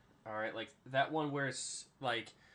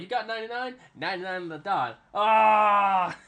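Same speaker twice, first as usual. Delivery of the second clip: high, loud mimicked hype; acted celebration; 7 semitones higher, 12 dB louder than usual. Teammate celebrating ninety-nine yards, loud high hype rising to yell. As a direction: imitate a teammate whooping, building to a yell.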